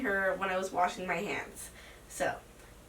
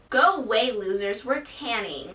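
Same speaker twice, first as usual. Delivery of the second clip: retold sassy brush-off. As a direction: act out a mildly sassy dismissal, punching the opening. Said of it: "I was being all sassy".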